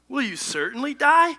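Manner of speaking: "Will you certainly die" turned into a doubting question; serpent's question mark. Acted. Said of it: "puts in that question mark".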